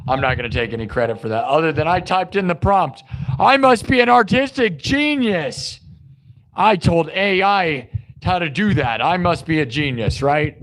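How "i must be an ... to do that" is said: high-pitched mock boasting; hammed-up bragging, pitch soaring; mock self-praise. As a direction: crow it like a self-declared genius. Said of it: "Those people that take credit for nothing".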